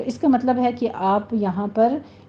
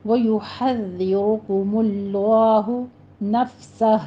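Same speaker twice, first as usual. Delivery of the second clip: slow, careful Quranic recitation; recitation demo; slower than usual. Shown as a demonstration. Teacher models the verse for students, slow and careful. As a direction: recite it slowly with rounded lips. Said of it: "ہونٹوں کو گول ہی رکھیے".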